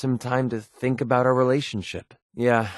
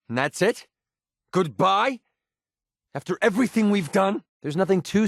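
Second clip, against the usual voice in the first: hurt disbelief; 8 semitones higher than usual. Acted. Hurt companion at breakup.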